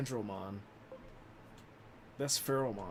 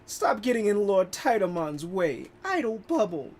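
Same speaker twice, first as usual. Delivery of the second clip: lady voice; 6 semitones higher, 6 dB louder than usual. Acted. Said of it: "That's my best lady voice".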